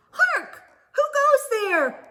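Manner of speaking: high, loud, grand challenge; mock sentry call. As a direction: call out like a little castle guard. Early Bird plays knight sentry.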